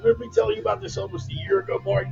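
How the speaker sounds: high, fast excited greeting. Real, not acted. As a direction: call the name out high and bright.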